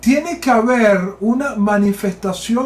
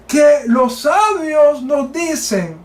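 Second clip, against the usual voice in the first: fervent preaching; 4 semitones higher, slower than usual. Real, not acted. Preacher at full force.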